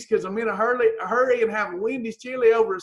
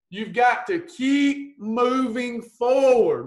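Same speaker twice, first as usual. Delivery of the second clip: Rocky quote; much slower than usual. Retold or imitated. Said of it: "Rocky said to his son".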